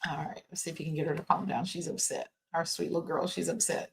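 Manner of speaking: real whisper. Real, not acted. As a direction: whisper so the upset dog isn't stirred up. Dog barking, husband calming her.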